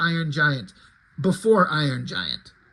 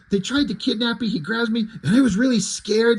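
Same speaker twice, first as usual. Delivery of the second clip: put-on a kid milking the drama, rising higher and louder toward "scared"; dramatic kid; 4 semitones higher, 3 dB louder than usual. Boy tells grandpa about the kidnapping, dramatic and building. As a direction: oversell the scare like a child wanting sympathy. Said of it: "the kid's being really dramatic in his explanation".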